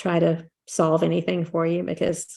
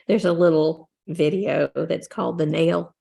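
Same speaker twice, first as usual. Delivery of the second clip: slow, drawn-out Southern accent; a light Southern twang on the title; a hint of a Southern accent, said slowly. Shown as a demonstration. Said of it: "I just said that with a very Southern accent".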